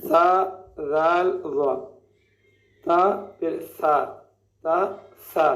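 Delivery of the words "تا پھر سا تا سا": slow drill of تا then سا, the سا soft; teacher contrasting تا with a softly spoken سا; soft tha drill. Shown as a demonstration. Tajweed teacher drilling students, soft letter. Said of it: "سا کی ادائیگی نرم، نرمی کے ساتھ".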